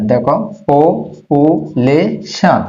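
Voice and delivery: পপুলেশন stretched syllable by syllable; slow demo pronunciation. Shown as a demonstration. Teacher modelling পপুলেশন after spelling it, very slow. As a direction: draw out পপুলেশন very slowly. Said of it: "একটা ওয়ার্ডকে ভেঙে ভেঙে উচ্চারণ করে শিখো".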